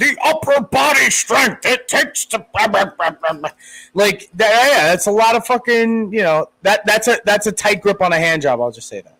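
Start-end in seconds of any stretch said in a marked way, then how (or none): 0.0-3.5 pro wrestling commentator announcer voice. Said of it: "you gotta say it like a pro wrestling fucking commentator".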